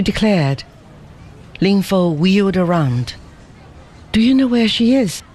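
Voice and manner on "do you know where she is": quick suspicion. A narrator's reading. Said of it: "he asked with quick suspicion".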